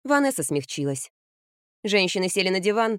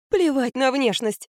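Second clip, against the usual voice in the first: higher, slow and emphatic; declaring; 6 semitones higher, slower than usual. Acted. Grandmother to daughter, slow insistent declaration. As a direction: lay it down slowly, pitched up. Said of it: "объявила Алла Константиновна".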